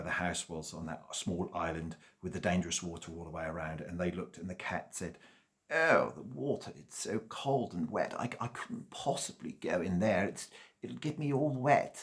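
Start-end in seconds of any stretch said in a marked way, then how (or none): 5.7-12.0 fussy cat. Acted. Fussy cat fears water.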